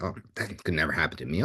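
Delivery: put-on dismissive teen. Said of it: "invincible mentality, like".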